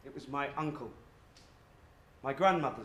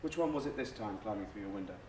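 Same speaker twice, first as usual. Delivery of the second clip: grandmother; 7 semitones lower, 8 dB quieter, faster than usual. Acted. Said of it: "every night she comes in".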